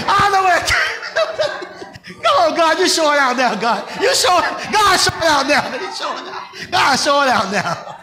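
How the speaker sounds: speaking through laughter, caught up in praise; laughing joy. Real, not acted. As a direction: laugh as you praise God. Preacher overcome with joy.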